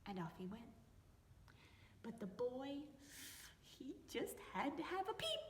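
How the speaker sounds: lively read-aloud with voices for each animal and person; story reading for children. A narrator's reading. Teacher reading a picture book to young children, lively storytelling. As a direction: read it to little ones, bright and playful.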